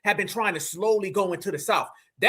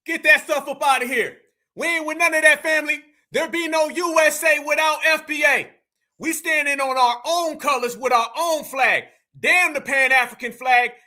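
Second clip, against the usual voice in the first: rallying shout; 3 semitones higher than usual. Real, not acted. Host calling out to his followers, shouting. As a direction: fire up the crowd with a shout.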